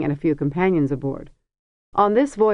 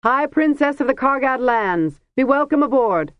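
a ringing royal welcome, raised and unhurried; 8 semitones higher, 3 dB louder than usual. A narrator's reading. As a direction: announce it grandly across the deck. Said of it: "said in a ringing voice".

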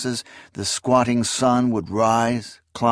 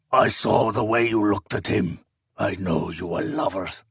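sneering accusation. Acted. Rival's remembered accusation.

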